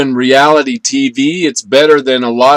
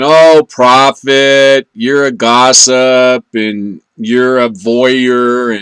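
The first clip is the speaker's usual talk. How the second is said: slow, drawn-out teasing accusation; imagined critic; much slower than usual. Retold or imitated. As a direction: play a listener scolding him. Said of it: "some of you are out there saying".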